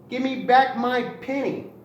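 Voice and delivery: demanding cry. Acted. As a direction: demand the penny back like a stubborn rooster. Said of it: "cried as he had before".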